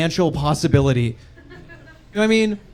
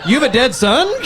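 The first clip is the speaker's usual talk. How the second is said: laughing self-mock; 6 semitones higher, 4 dB louder than usual. Mock of own phrasing.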